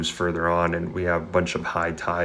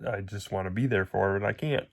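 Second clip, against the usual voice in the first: voice breaking. Real, not acted. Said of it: "sorry if my voice breaks".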